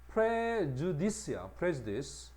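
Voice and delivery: prejudice를 느리게 또박또박; 학생들 따라 하게 천천히 들려주기. Shown as a demonstration. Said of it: "단어 발음 시범". (prejudice 발음 시범)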